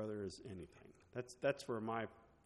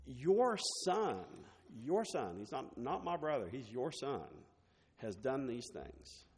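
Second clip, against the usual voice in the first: resentful son; 2 semitones higher than usual. Retold or imitated. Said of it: "He was angry".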